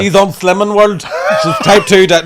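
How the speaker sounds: imitating a loud, high-pitched punter; mock pushy shouting. Woman outside urging comics to roast her friend, mock pushy shout. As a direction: egg them on at full volume.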